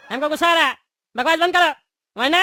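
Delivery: firmer repeat of the same words, pushing to sound angry; trying harder to sound angry; insisting on anger. Acted. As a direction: say it again and make them believe you're angry. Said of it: "अरे तुमको समझ में नहीं आ रहा".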